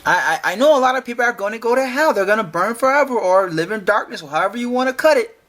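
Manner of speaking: fast, sing-song sneer at the claim; mock the confident claim, fast and sneering; mocking rapid parody. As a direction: rattle it off like a smug know-it-all. Mocking rapid restatement of Josh.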